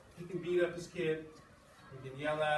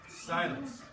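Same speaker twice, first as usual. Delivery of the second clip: expressive read-aloud to a class; story reading. A narrator's reading. Teacher reading a novel aloud to the class, expressive. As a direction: read the story with feeling for the students.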